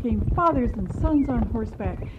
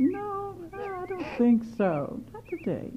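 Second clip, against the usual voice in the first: higher, a touch wary mother refusing; firm refusal; 10 semitones higher than usual. Acted. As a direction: refuse gently but firmly.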